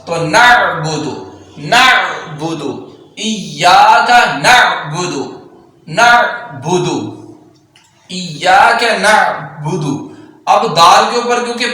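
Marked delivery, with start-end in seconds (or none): 0.1-10.1 slow careful recitation of the words. Shown as a demonstration. Teacher reciting slowly for students. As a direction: recite each word slowly. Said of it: "slow model recitation".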